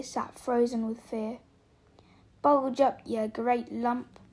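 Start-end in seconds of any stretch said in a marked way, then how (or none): 2.4-4.2 low looming threat. Acted. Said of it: "said the stranger".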